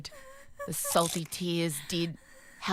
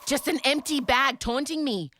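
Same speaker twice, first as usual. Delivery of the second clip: dramatic despair; 6 semitones higher, 4 dB louder than usual. Retold or imitated. Dramatic despair at empty bag.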